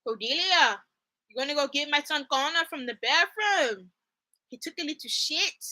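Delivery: lightly imitated bad Irish accent; a hint of mock Irish, badly faked; Angel's Irish accent. Imagining Angel talking to Cordelia, mock Irish accent. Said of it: "you imagine Angel right now talking".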